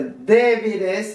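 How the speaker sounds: "débiles" with a held first E; stress on first syllable. Shown as a demonstration. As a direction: pause on the DÉ of "débiles". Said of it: "c'est pour cela". (« débiles » en posant l'accent sur le E)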